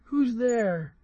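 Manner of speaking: the wolf calls out big and loud from the bed; loud, big-voiced wolf call from inside. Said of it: "hearing the big voice of the wolf".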